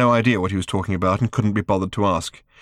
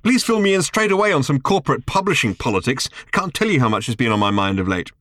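higher, exaggerated mock eagerness; sarcastic; 6 semitones higher than usual. A narrator's reading. Arthur mocking Ford's publishing news, sarcastic. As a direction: drip with sarcasm.

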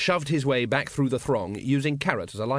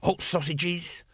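raised whining vendor's cry; 5 semitones higher, much slower than usual. A narrator's reading. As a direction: whine out the wares, drawn out. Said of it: "whined a voice behind them".

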